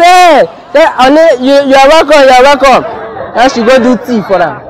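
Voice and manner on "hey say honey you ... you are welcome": higher-pitched imitation of a delighted wife; gushing welcome. Wife welcomes her husband home at night, gushing. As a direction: act out an eager wifely greeting.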